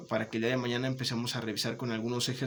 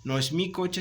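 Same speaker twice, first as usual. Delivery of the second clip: mi pitched higher and punched; stress on mi; 6 semitones higher than usual. Shown as a demonstration. Teacher contrasting mi with mí, stressing mi. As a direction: hit mi to show the possessive. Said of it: "Es para mí".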